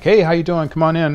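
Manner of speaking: high, loud fake-friendly greeting; mock cheery welcome. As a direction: greet the disease like a cheerful host at the door.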